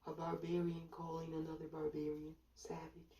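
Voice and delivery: low, soft dismissive scoff. Acted. Onlookers mocking Americans who claim to be Christian, quietly scoffing. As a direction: scoff quietly under the breath, pitched low. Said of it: "everybody else just scoffs at that and says".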